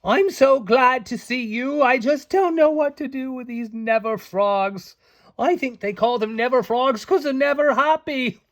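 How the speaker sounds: high and loud, flustered and overwhelmed; a high, anxious fairy at her wits' end; Beck, high fretful voice. Acted. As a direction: pour out the frog troubles in a high, harried voice. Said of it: "Beck cried".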